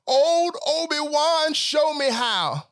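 begging Obi-Wan for his coffee, stretched out and loud; mock Jedi plea. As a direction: summon the Jedi master in a slow, loud, sing-song plea.

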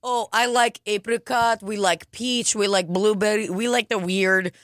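lightly put-on Russian accent; listing things in a mock Russian accent. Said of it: "It's very Russian".

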